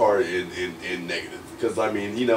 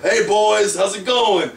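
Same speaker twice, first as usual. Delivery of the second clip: a light, much higher hearty greeting; chummy big-guy hello, pitched up; Kevin Nash greeting; 10 semitones higher, 4 dB louder than usual. Retold or imitated. Kevin Nash coming up to the brothers, lightly voiced and friendly. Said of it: "Kevin Nash walked up".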